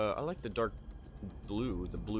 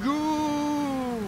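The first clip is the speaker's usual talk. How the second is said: excited shout; 5 dB louder than usual. Real, not acted. Race finish push.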